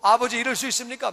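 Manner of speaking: indignant protest to a father; wronged older son, mildly acted; acted anger. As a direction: complain hotly in a run-on rush of grievance. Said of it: "막 화를 내는 거예요".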